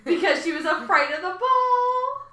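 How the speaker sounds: punchline sung out through a laugh. Real, not acted. Telling the punchline of a dad joke.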